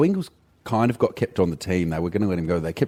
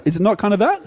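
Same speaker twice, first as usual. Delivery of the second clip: put-on Norwegian accent; 9 semitones higher than usual. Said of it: "your Norwegian accent".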